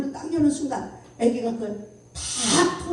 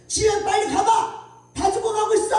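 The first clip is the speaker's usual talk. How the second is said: retold scolding; 10 semitones higher, 4 dB louder than usual. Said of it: "막 야단을 쳐놓고".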